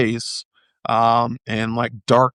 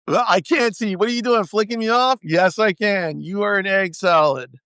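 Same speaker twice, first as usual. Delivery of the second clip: playful teasing; 7 semitones higher than usual. Real, not acted. Teasing wife across room.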